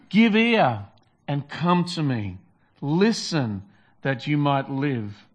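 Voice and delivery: slow, measured reading with the line-opening calls to come lifted and pressed; scripture reading. Acted. Preacher reading Isaiah to the congregation, slow and emphatic. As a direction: read the passage like an invitation, pausing between clauses.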